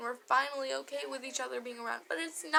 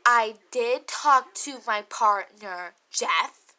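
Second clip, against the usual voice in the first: retort; 4 semitones lower, 9 dB louder, slower than usual. Retold or imitated. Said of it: "I'm like".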